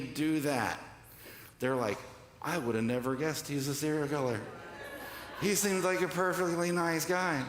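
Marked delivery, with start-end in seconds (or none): 2.4-7.4 lightly voiced neighbor, pitch climbing; interviewed neighbor. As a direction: play a mildly astonished neighbor on camera. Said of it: "they go interview the neighbors".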